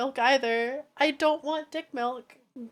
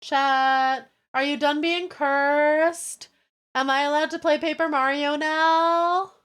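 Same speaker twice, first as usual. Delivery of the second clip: tag; 2 semitones higher, slower than usual. Real, not acted. Exasperated appeal to chat.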